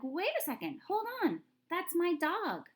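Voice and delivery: high, loud yell. Shown as a demonstration. Girl yelling to the manager, loud. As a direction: yell it out to stop him. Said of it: "She's yelling to the manager".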